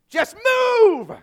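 high, loud frustrated yell; yelling at the clock. Retold or imitated. Bored kid in church yelling at the clock, high and loud. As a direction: shout at the clock to hurry up.

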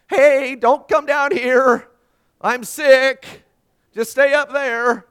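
loud, high, drawn-out yell; panicked calling out. Retold or imitated. Sick dad calls to family upstairs, hammed-up panicked yell. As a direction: holler up the stairs to keep them away.

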